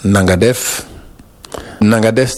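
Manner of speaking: nangadef said the Senegal way; nangadef, Wolof greeting. Shown as a demonstration. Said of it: "on l'emploie pour dire bonjour".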